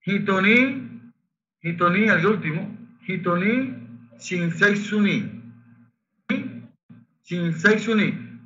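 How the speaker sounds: hitoni said slowly, the H breathed like a Spanish J; pronunciation drill. Shown as a demonstration. Teacher correcting a student's line, slow careful drill. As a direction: slowly spell out hitoni and shinsei suni. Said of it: "las H suenan como J".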